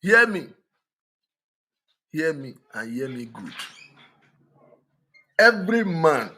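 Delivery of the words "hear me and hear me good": low urgent aside. Real, not acted. Sudden drop after shouting.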